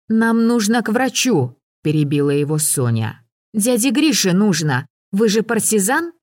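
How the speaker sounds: a hint of a girl standing her ground; girl's voice. A narrator's reading. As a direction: Sonya contradicting the hunter, in a lightly voiced girl's tone. Sonya voiced by narrator.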